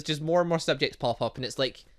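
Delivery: normal talking voice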